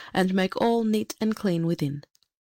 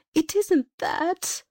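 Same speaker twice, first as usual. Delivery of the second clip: kitchen maid, higher and slow, a touch tearful; mild sob; 10 semitones higher, much slower than usual. A narrator's reading. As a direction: let it catch, slowly, like a girl near tears. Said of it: "she sobbed".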